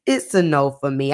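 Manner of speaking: low, lazy judge's verdict; Randy Jackson voice. Shown as a demonstration. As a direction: hand down the no like a TV judge. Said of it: "In my Randy from American Idol voice".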